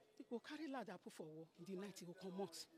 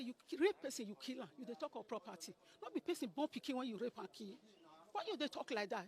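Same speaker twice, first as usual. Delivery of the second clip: raised, heated accusation; angry accusation; 3 dB louder than usual. Retold or imitated. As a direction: throw the charge at him. Furious accusation in retold quarrel.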